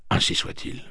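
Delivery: whispered, unvoiced; whispered resolve. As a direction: breathe it to yourself. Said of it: "se dit-il".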